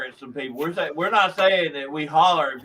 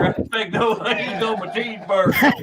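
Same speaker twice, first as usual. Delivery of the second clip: louder, higher-pitched rant; hammed-up angry customer; 5 semitones higher, 4 dB louder than usual. Irate customer ordering a cheeseburger, hammed-up anger. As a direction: play an irate customer laying down the law.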